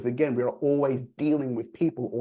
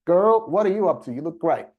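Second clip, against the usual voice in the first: excited compliment; 4 semitones higher, 5 dB louder than usual. Retold or imitated. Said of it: "when you say".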